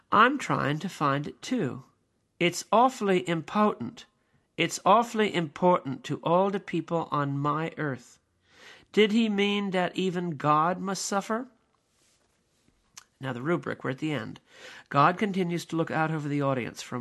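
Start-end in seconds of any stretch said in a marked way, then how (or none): 0.1-11.5 God's lament. Acted. God's speech in the play.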